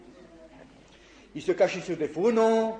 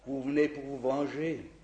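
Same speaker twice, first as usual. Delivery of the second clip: miserable tone; 4 semitones lower, 5 dB quieter than usual. Retold or imitated. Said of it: "d'un ton misérable".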